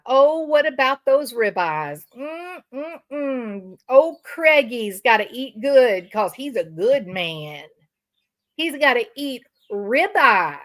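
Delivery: hammed-up imitation of a bragging woman, savouring ribeyes; mock her gushing over steak, with lip-smacking mm's; mocking brag voice. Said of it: "She brags about".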